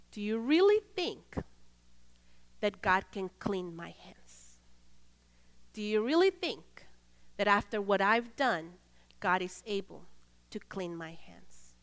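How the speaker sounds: soft, halting plea with long pauses; understated anguish, sinking to very soft; tearful pleading. Retold or imitated. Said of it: "and he was crying".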